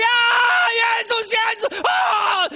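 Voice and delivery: loud, high ecstatic shrieking; screaming crowd. Acted. Preacher imitates Christians freaking out at Jesus' arrival, ecstatic screaming. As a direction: scream like fans gone wild for Jesus. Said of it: "Die sind im Schreien".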